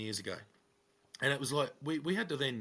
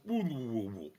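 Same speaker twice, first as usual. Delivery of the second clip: slowed-down record sound. Retold or imitated. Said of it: "when you slow down a record, he goes".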